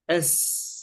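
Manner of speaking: "أس" with a long hissed s; sustained sin. Shown as a demonstration. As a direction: give the s in "أس" its full time. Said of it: "نعطي الحرف وقته من الزمن".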